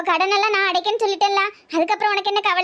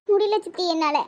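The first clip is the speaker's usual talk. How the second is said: a touch of tearful helplessness; 3 dB quieter than usual. Acted. Niece telling her aunt she can't bear it, tearful. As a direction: say it through held-back tears. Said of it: "அழுவாதடி".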